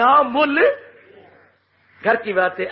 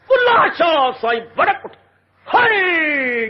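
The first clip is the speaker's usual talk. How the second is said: anguished cry; 4 semitones higher, slower than usual. Acted. Saint flares up in anguish.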